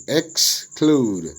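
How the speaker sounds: "exclude" split as ex, clude; syllable by syllable. Shown as a demonstration. Teacher dividing worksheet words, "exclude" broken into syllables. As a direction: say "exclude" as two separated syllables. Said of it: "syllable division of the words".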